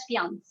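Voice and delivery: fiance as "fee-ahns", ending on s; final E left silent. Shown as a demonstration. Teacher showing the word without accent, fiance with silent e. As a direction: say fiance with no "ay" at the end. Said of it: "without that accent, you pronounce it as".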